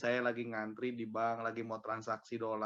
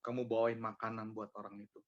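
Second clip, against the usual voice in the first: Holy Spirit; 3 semitones lower, 6 dB quieter than usual. Retold or imitated. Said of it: "Saya jelas banget itu".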